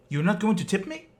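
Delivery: mock-indignant, high and loud, as the put-out driver; retelling a driver's high, loud outrage; indignant demand. Angry driver demands tip, retold.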